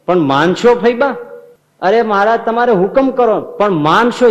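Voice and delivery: high, loud, insistent pleading. Acted. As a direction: beg her to agree, voice climbing. Maharaj pleading Faiba to obey.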